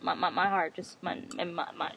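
faltering, choked-up repeats; words catching in the throat; real grief breaking up the sentence; emotional stutter. Real, not acted. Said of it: "I'm stuttering now 'cause I'm getting emotional".

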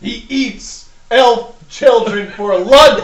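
ring announcer. Acted. Announcer hyping the half-orc.

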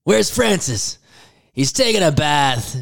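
high quoting voice; playful Pee-wee-style line; movie quote voice. Retold or imitated. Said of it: "one of the lines from that movie I say all the time".

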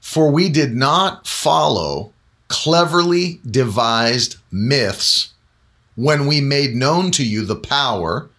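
very slow, deliberate verse reading with spaced-out phrases; slow scripture reading. Real, not acted. Preacher reads Peter's words slowly because there's a lot to unpack. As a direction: read it slowly, weighing each phrase. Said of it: "I'm gonna read it slowly".

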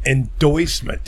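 ENDORSEMENT slowed into "en-doysment"; imitated mispronunciation. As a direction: quote the slip slowly, "oy" in ENDORSEMENT. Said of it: "God, you said".

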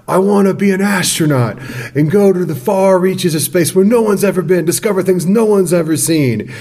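high, soaring schoolboy dream voice; a hint of a starry-eyed British kid; grand dreamy child. Schoolboy tells his teacher his grand space dream, mock-grand. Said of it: "Izzard has a great bit".

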